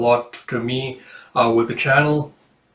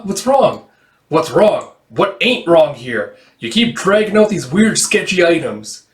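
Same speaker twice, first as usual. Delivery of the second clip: suspicious accusation; 5 semitones higher, 4 dB louder, slower than usual. Acted. Acted accusation in dice game.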